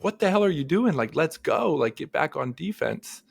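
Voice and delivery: toned-down imitation of a coach, slightly high; retold coach call. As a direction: lightly quote a coach urging a player on. Repeats coach's words more mildly.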